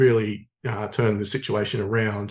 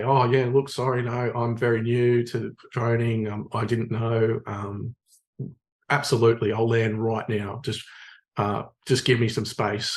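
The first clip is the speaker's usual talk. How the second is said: calm apology. Retold or imitated. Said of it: "I was calm with him".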